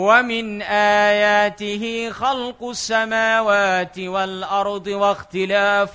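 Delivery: slow drawn-out Arabic chanting; slow melodic recitation; Quran recitation. Acted. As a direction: chant each word slowly, reverently.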